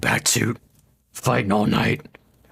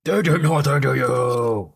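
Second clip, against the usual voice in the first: lightly voiced gravelly hero line; a touch of mock Batman; 2 semitones higher than usual. Repeating the quote to himself, mock Batman voice.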